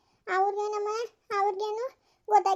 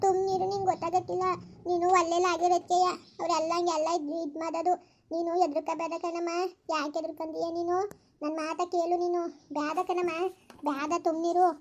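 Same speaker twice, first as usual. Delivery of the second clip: mocking mother; 4 semitones lower, 3 dB quieter than usual. Daughter mimicking her mother's lower, softer hushing.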